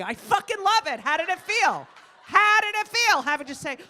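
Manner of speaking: high, loud excited teasing. Real, not acted. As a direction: tease her with glee. Excited teasing of audience member.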